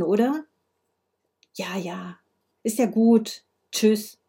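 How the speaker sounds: lightly acted one-sided phone call; halting replies to an unheard caller, lightly voiced; Frau Moser on the phone.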